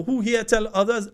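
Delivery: high Grenadian Patois call-out; lively Grenadian Patois rally call. Shown as a demonstration. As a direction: ask the crowd in Grenadian Patois. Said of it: "in Patois because that Patois ain't Patois".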